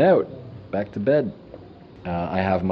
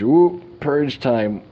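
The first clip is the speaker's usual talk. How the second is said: drawn-out ooh; 6 semitones higher, 5 dB louder, much slower than usual. Retold or imitated. Sudden urge to purge.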